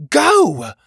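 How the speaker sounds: loud, high shout; sharp high yell, cutting someone off; urgent order. A narrator's reading. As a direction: bark it as a command. Pockets orders Petey to flee.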